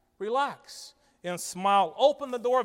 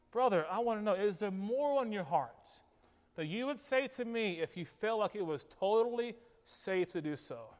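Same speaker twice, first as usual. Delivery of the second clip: gentle asking; 4 dB quieter than usual. Retold or imitated. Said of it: "in a gentle way".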